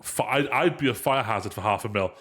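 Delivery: blocked nose, stuffy voice; congested. Real, not acted. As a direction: talk through a stuffy nose. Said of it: "So I do, do sound like I'm, I'm heavily congested".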